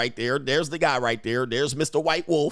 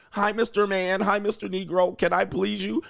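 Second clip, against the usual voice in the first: lightly voiced eager admirer, pitched up; higher, playfully servile mock greeting; imitated fawning woman; 5 semitones higher than usual. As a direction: mimic a woman eager to please him. Mimics fawning women greeting him.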